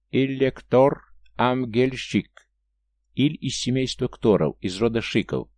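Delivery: each name spoken slowly and weightily; solemn, deliberate self-introduction; with emphasis. Acted. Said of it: "с ударением произнёс Иль".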